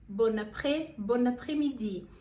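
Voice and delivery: "Bon après-, bon après-midi" built up piece by piece, French nasal bon. Shown as a demonstration. Teacher demonstrates bon après-midi, careful French pronunciation. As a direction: model the greeting in two steps. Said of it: "você também pode dizer bon après-midi".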